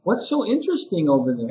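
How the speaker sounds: showing interest. Shown as a demonstration. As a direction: sound intrigued by what a student is doing. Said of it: "it's the way you say it also".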